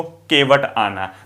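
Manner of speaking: slow, deliberate केवट आना; drawn-out केवट आना; slow demo reading. Shown as a demonstration. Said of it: "न इधर आ गया".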